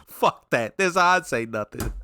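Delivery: quoting a tough line through laughter; amused imitation. Viewer mimicking the clip's retort, amused imitation.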